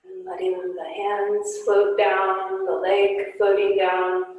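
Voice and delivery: guided yoga instruction. Acted. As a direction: gently guide the class through poses. Guided yoga class cues.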